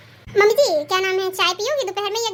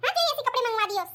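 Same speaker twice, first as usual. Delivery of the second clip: scolding; 4 semitones higher than usual. Acted. Mother-in-law scolds over the dress.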